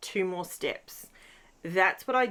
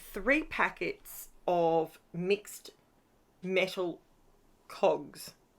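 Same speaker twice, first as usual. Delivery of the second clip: slow, halting, deliberate word-by-word phrasing. Recounting an order, the speaker names the item: said slowly. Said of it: "I had to say that slowly".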